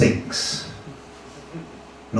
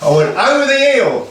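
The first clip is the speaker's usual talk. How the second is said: grand storytelling; 5 semitones higher than usual. Acted.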